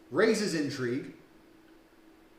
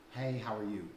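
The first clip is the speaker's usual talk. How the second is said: softer, lower "Hey, how are you?" falling on "Hey"; flat opener; 4 semitones lower, 6 dB quieter than usual. Retold or imitated. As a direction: drop it dully like a tired line. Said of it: "a lot of men say".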